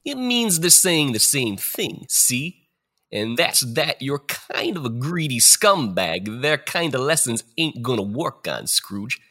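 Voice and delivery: tough mobster spirit, cocky; gangster ghost voice. Acted. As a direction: play a wiseguy ghost talking down. Gangster-style ghost of future.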